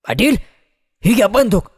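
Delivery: high, quick-fire acted call; temple priest's shout. A narrator's reading. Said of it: "गुरव ओरडला".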